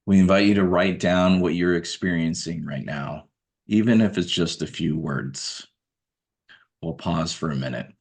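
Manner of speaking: measured meditation guidance, spaced out by long pauses; guided meditation. Acted. Guide asking listeners to observe their everyday breath, guided meditation. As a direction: calmly direct attention to the breath, leaving room between phrases.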